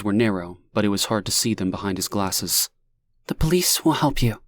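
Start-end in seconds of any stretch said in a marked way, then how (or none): 3.3-4.4 calm voice. A narrator's reading. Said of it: "once more in her calm voice".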